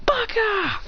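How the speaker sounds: "Baka!" breathed out as a high whispered cry. Retold or imitated. Kid retelling the fight, whispering the insult again. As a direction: hiss "Baka!" under the breath.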